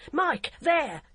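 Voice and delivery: high, loud pointing call; shout. A narrator's reading. Barbara shouts to the constable spotting the girl, high loud. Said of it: "She shouted".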